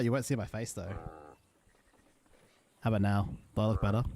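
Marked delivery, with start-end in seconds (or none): 2.8-4.0 flat monotone, no lift at all. Real, not acted. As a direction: drone it in a monotone. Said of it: "I'm talking in a very monotone voice".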